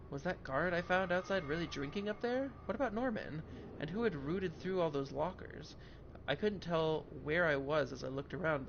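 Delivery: steady narrating read of game text; story narration. Acted. Reads game text aloud.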